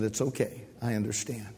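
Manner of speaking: gentle reassurance. Retold or imitated. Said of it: "She just smiled and said".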